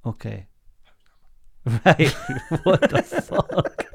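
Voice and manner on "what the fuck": stunned whispered what the fuck; breathless disbelief; shocked. Real, not acted. Shocked outburst at co-host.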